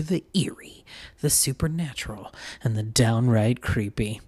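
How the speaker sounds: spooky announcer intro; horror host. Acted. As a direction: draw them in like a horror host. Opens spooky podcast intro over music.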